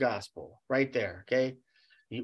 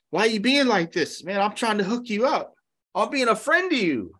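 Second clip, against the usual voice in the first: pushy, raised voice of a dealer leaning on him; mock threatening dealer; 7 semitones higher than usual. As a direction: act the old friend turning pushy, voice up. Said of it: "the guy's starting to threaten him".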